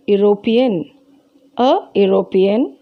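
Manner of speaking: European begun with a "you" sound; consonant-like start on European. Shown as a demonstration. Teacher showing children it will not sound like a vowel, European said with a y sound. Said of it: "we pronounce it as".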